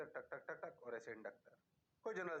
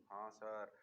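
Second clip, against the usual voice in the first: mock student reply; 5 semitones lower than usual. Teacher voices a student answering.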